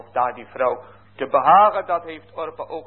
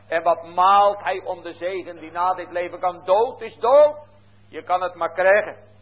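raised, intense pulpit voice; fervent preaching; 6 semitones higher, 6 dB louder than usual. Acted. Preacher warns his flock about foolish virgins, intense and raised. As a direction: preach it hard and high to stir the congregation.

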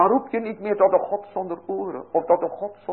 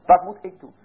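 urgent cry; 3 semitones higher, 7 dB louder, faster than usual. Acted. Repeats the cry as a call.

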